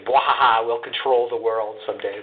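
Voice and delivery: gleeful villain cackle, then a boast; evil scientist laugh. Pretend. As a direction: mad scientist plotting world control. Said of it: "an evil scientist laugh or something".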